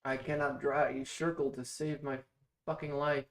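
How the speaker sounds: loud, exasperated swearing at herself; frustrated outburst. Real, not acted. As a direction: blurt it out, fed up with the drawing. Frustrated at failing to draw circle.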